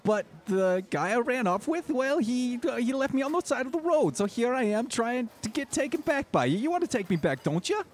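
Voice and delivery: put-on high, pleading Jersey-accented woman. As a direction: beg to be taken back in a thick Jersey accent. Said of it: "a thick Jersey accent".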